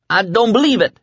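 high-pitched, unbroken disbelief; disbelieving. A narrator's reading. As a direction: say it in high incredulity. Kid sees the blocked road.

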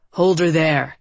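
low-voiced villain's order. A narrator's reading. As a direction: answer in a low, firm voice. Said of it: "another low voice responded".

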